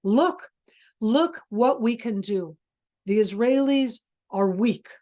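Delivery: emphatic mock boasting as Hamas; slow, spaced-out taunt, lightly voiced. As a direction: play a mild gloating propagandist. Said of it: "Now I'm being Hamas".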